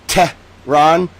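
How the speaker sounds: Tehran split into "Teh... rahn"; exaggeratedly careful "Teh, rahn"; phonetic attempt. Shown as a demonstration. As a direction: sound out "Tehran" with a gap between syllables. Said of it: "How am I supposed to do that?".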